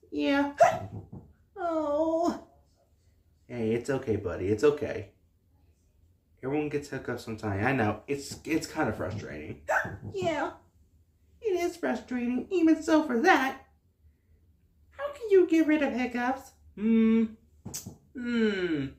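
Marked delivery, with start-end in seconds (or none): 0.6-1.2 sharp little hiccup gasp. Acted. A hiccuping little star gasps. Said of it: "you got the hiccups". 10.1-18.9 high little star voice, broken by hiccups; baby star voice. Acted. Woohoo tells Gaming why he hiccups, in a high baby voice. Star asks how to stop.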